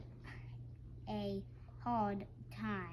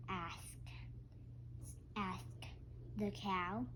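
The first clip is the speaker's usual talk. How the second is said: whisper; 4 semitones lower, 10 dB quieter, slower than usual. Acted. Whispered narration.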